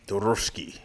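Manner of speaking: badly faked Russian accent; throwaway Russian accent attempt; mock Russian accent. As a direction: fake a Russian-sounding word. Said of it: "you have the accent".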